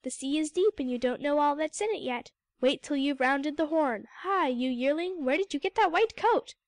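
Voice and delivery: put-on loud, high old seals calling out; gruff elder seals shouting down the beach; crying out. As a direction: bellow at the youngsters from the hill.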